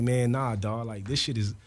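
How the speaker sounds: whispering back to his friend; hushed reply in a quiet panel. Retold or imitated.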